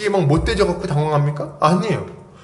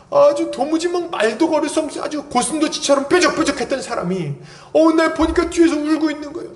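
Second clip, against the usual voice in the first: ordinary talk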